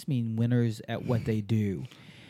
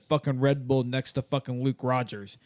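cocky bragging jumper. Retold or imitated. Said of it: "I see people regularly go like".

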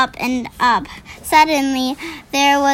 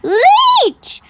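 high squealing yelps, much higher; pained yelp; 10 semitones higher, 3 dB louder than usual. Acted. Giant spitting out the vegetable, squealing yelps.

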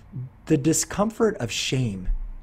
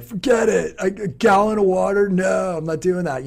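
high, loud, scoffing dismissal; mock refusal; 7 semitones higher, 5 dB louder than usual. Dieter refusing the gallon of water, high loud scoff.

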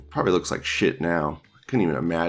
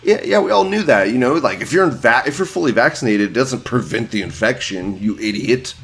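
higher, louder, sneering mockery of a know-it-all; sarcastic mock voice; 4 semitones higher, 4 dB louder than usual. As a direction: talk down to them like an idiot. Sarcastic leftist voice.

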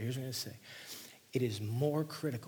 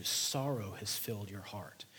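breathy hushed reading of sorrow; whispered scripture; 3 semitones lower than usual. Acted. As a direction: let it drop to a whisper. Whispered verse line.

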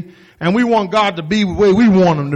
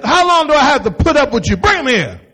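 fed-up Jesus; 4 semitones higher than usual. Retold or imitated. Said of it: "He said".

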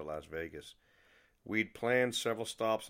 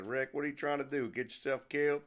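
higher-pitched, amused Southern-friend ribbing; amused mock scolding; 6 semitones higher than usual. Friend hearing the diner story, amused high-pitched teasing. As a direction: rib your friend, pitch lifted. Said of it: "he laughed and said".

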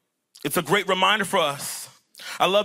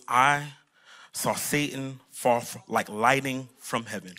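low, quiet deadpan Jesus; straight-faced; 7 semitones lower, 4 dB quieter than usual. Pretend. Jesus answering disciples who boast they did it, straight-faced deadpan. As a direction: drop low and state it without excitement. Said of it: "with a straight face".

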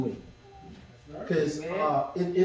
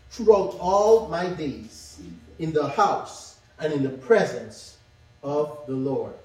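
scripture reading. Acted. Reads Psalm aloud.

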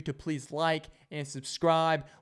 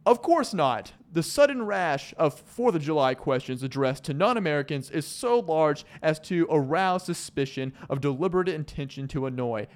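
proper British reader. Retold or imitated. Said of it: "this guy sounds proper".

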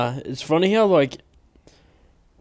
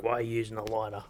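mock snooty question; 2 semitones lower, 8 dB quieter, faster than usual. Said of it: "cigar connoisseurs were like".

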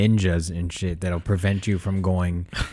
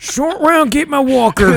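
put-on high creaky old man call; 5 dB louder, slower than usual. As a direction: call for help like a frail grandpa. Continuing the old Indiana Jones bit.

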